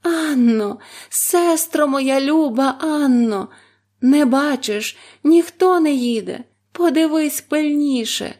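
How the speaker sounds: high, loud drawn-out cry; desperate call. A narrator's reading. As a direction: call out one last time. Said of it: "востаннє гукнула з розпокою".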